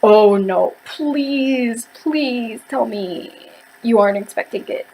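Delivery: soft, slow mock plea, please drawn out; pleading dread. Fan reading the ending, softly pleading in dismay. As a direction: beg the book quietly not to let it happen. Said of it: "I was like".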